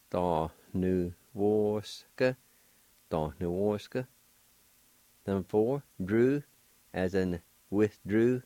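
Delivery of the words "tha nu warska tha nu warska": "Tha nu warska" with a nasal n, slow on the first take; nasalized N. Shown as a demonstration. Teacher showing a nasal sound to students. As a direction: let the n in "Tha nu warska" ring through the nose. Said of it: "will make a nasalized sound like this".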